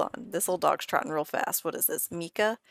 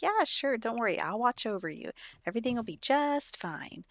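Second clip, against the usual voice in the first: high, sing-song reassurance; acted soothing, voice lifted high; reassuring; 5 semitones higher than usual. Friend tells sick Eli not to worry, high and reassuring.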